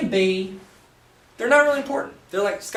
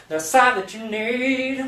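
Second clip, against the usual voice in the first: crooned a little higher and slow; mock angel voice; 6 semitones higher, slower than usual. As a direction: sing it out like a show-off crooner. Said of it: "Gosh, the voice".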